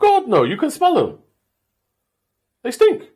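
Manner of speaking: loud, high, disgusted outburst; disgusted shout. Real, not acted. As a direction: yell it in disgust. Disgusted protest about smelly cars.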